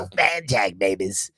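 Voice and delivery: seventies radio DJ impression; Wolfman Jack. Shows how the DJ sounded, Wolfman Jack voice. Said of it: "that's how he sounded".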